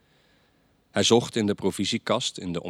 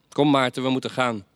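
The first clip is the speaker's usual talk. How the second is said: father calling out; 5 semitones higher, 5 dB louder than usual. Acted. Father calls son to leave.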